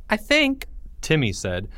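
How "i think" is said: put-on higher kid voice. Timmy teasing Porge about sharing, in a high kid voice. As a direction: pitch up high for the little boy.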